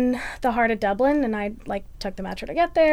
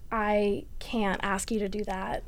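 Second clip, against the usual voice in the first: slow, soft whisper of refusal; 6 dB quieter, slower than usual. Retold or imitated. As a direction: breathe the words out, barely voiced and slow. Turning down his offer softly.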